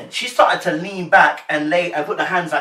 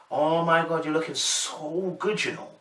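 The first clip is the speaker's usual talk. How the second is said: drawn-out, smitten compliment; slow, softer gushing over someone; giveaway admiring intonation; 6 dB quieter than usual. Acted. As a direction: let the crush show, stretching the words. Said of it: "made it very clear with the intonation".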